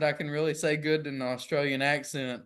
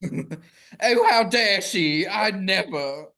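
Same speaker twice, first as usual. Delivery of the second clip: louder, clutch-the-pearls mock indignation; mock offense; 3 semitones higher, 6 dB louder, much slower than usual. Pretend victim of a royal insult, hammed-up indignation. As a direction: play the scandalized victim, drawn out.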